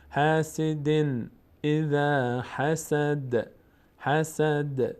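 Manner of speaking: slow, drawn-out Quran recitation; tajwid recitation. Shown as a demonstration. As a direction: chant it slowly, stretching every vowel. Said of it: "Quran recitation". (تلاوت آرام و کشیده)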